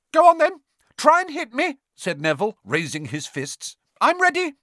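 high, loud, trembling dare; a frightened boy pretending to be tough; shaky bravado. A narrator's reading. Neville daring Ron to hit him, high and loud. Neville raises his fists.

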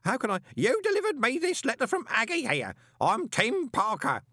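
loud, high roar. A narrator's reading. Parker roaring at Moist over his letter, loud. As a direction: roar it, no sense of volume. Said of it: "the man roared".

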